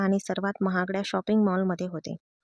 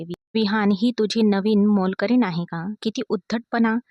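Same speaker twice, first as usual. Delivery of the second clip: louder, haughty disdain; snooty sneer; 4 dB louder than usual. Acted. Rich girl mocking the wife as a maid, sneering. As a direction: wrinkle your nose as you speak. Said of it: "नाक मुरडत".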